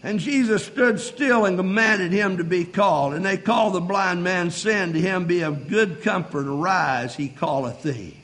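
low, measured Bible reading; scripture reading. Real, not acted. Reads scripture aloud.

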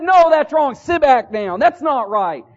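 mildly sharp mock scolding from a teacher; berating teacher. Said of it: "the teacher berated him".

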